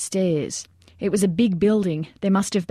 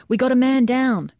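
high-pitched urgent call; urgent radio alarm; 6 semitones higher, 4 dB louder than usual. A narrator's reading. Soldier reporting a casualty into the radio, urgent high call.

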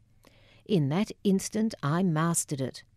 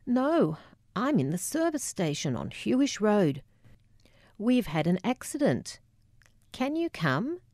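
shaken phone call; 5 semitones higher than usual. Retold or imitated. Telling Mum about the accident.

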